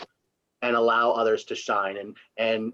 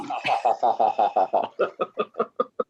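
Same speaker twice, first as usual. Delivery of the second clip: evil laugh. Pretend. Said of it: "There you go, Jason".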